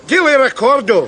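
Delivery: Daily Recordo with a put-on Spanish ending; mock Spanish. Tourist mock Spanish to the waiter, hammed up. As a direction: tack a Spanish o onto "Recordo". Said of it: "haven't quite mastered the accent".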